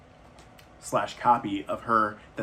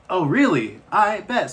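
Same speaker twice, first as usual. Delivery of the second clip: mocking, loud and high; a boy taunting the heron who threatened him, loud defiant scoff; 8 semitones higher, 8 dB louder than usual. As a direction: call the bluff with a sneer. Mahito defies the heron's threat.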